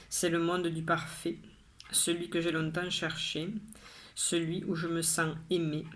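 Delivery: measured poem recital with pauses between lines; poem reading. Acted. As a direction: recite each line evenly, pausing after it. Reads the poem second time.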